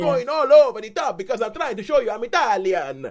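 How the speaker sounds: high, loud, over-the-top mock Italian acting; loud parody of a performance that tries too hard; hammed-up Italian act. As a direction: ham it up like a soap opera diva. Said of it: "I'm looking at it going".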